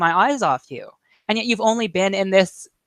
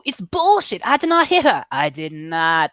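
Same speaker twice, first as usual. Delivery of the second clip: high, melodramatic protest, slowing on the last line; hammed-up indignant film quote; mock outraged denial; 6 semitones higher, 4 dB louder than usual. Acting out the film's denial scene.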